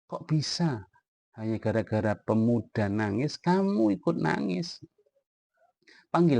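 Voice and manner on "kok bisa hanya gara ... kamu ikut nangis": Rasulullah asking in amazement how Umar could cry; surprised question. Retold or imitated. Rasulullah doubting Umar's tears, voiced with high-pitched surprise. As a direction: pitch rising high in disbelief. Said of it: "Rasulullah kemudian heran".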